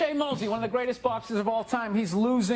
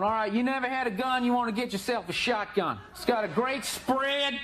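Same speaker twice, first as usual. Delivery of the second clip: imitated redneck. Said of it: "these rednecks are all telling me".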